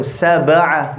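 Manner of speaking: "sab'a" with the b jerked, then released; qalqala on ba. Shown as a demonstration. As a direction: bounce the b in "sab'a" without adding a vowel. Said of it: "we have to jerk".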